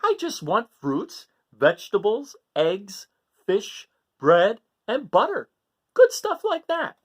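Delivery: put-on high eager child listing foods; Gregory pleading. Gregory telling his parents what he likes, eager and high. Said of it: "said Gregory".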